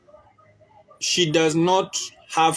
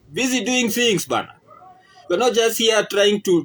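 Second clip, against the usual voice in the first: higher and faster, fed up and insistent; exasperated rant; 5 semitones higher than usual. Real, not acted. Venting to viewers about partners who only hint, exasperated and fast. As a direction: push it out like you've had enough of guessing games. Ranting against hinting partners.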